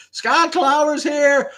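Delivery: high, drawn-out loud hail; slow high-pitched fanfare call; playful announcement. Pretend. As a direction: herald the arrival in a stretched cry. Announces a viewer's arrival.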